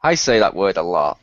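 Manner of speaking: low mocking impression; imitated deep-voiced self-parody; Garrus. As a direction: drop the voice low to mimic him. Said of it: "He goes".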